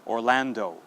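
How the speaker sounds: "Orlando" modelled as or-LAN-doh; final O pronounced. Shown as a demonstration. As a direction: say Orlando for learners, ending on a full oh. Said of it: "one more time".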